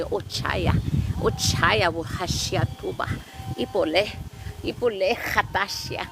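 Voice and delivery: rhythmic chanted syllables with sharp breathy ha's; light language channeling. Acted. Healer channeling light language for livestream viewers, chanted. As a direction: intone it like channeling spirit words.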